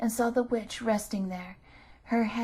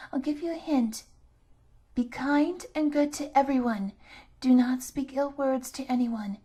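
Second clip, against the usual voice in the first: kind grandmother advising; 3 semitones higher, 4 dB louder than usual. Acted. Grandmother gives advice.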